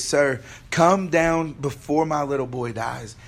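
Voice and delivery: loud, pressing plea; urgent pleading. Acted. Official begs Jesus for his dying boy, loud and pleading. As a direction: plead forcefully, raising the volume. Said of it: "he was standing pleading".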